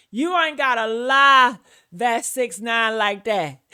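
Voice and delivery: mocking imitation. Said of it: "that's what she just kept on saying".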